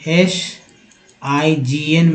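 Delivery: एसआईजीएन spelled slowly, शाइन said clearly; slow spelling. Shown as a demonstration. Teacher spells एसआईजीएन slowly for the students. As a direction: spell each letter out slowly. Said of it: "फिर देखिए".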